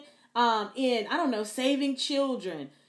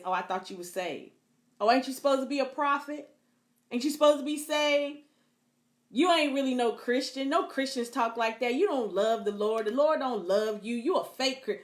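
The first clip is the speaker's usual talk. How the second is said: mocking abuser. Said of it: "the number one thing that they'll say".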